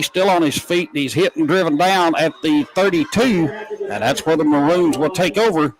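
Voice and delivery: live football kickoff call; live play-by-play. Real, not acted. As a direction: follow the runner play by play.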